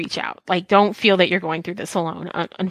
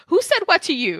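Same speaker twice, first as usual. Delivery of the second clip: confused; 8 semitones higher than usual. Retold or imitated. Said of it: "I'm like".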